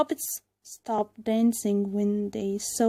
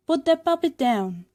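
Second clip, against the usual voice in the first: shouting; 7 semitones higher, 6 dB louder than usual. A narrator's reading. Pinocchio defies puppet master.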